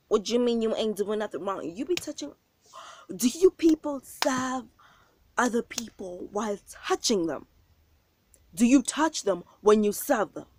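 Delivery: loud, indignant retelling; retold confrontation. To the waitress touching her man, indignant and loud. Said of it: "I came up behind like".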